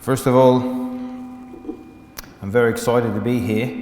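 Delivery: light Australian accent. Shown as a demonstration. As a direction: put on an Australian accent, measured and clear. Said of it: "that was my Australian accent".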